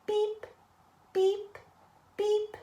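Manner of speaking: high little horn beeps; leading a beep-along; truck beeps. Shown as a demonstration. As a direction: toot for the kids to copy. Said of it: "Everybody heard that".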